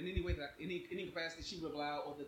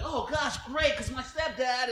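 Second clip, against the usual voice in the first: high, loud flustered babble; mock anxious gushing; nervous onlooker; 9 semitones higher, 8 dB louder, much slower than usual. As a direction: imitate an overexcited worried bystander. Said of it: "she made me more nervous".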